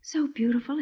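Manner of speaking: breathy hush of wonder; awed whisper. Acted. Miranda to Nicholas over his flower, whispering. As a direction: whisper it, overcome by beauty.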